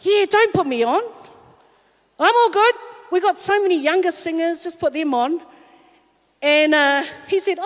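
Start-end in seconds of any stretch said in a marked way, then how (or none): 0.1-5.3 higher, falsely modest brush-off; fake humble. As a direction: pretend you don't care, a touch overdone. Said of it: "you say something but you don't mean it".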